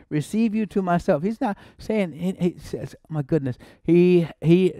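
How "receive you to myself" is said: Receive punched high, then you to myself; stress on receive. Shown as a demonstration. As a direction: open by hitting Receive hard. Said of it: "that word receive".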